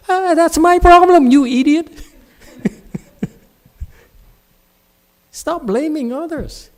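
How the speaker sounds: scolding shout. Real, not acted. Monk shouts back at a student who calls him unfair, loud and scolding. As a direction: blast the student for blaming you.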